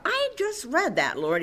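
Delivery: mild protest. Retold or imitated. Preacher retells objecting to the Lord, mild protest.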